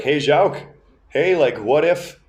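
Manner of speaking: a hint of grandma teasing her husband; lightly imitated grandma. Grandma jokes with grandpa about surgery, lightly imitated. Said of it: "she's trying to make a joke".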